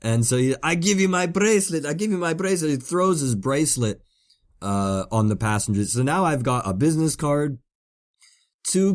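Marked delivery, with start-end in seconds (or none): 0.6-2.7 high-pitched imitation of frantic bargaining; mock screamed plea. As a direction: offer it desperately, as the pleading stranger. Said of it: "he's screaming at me".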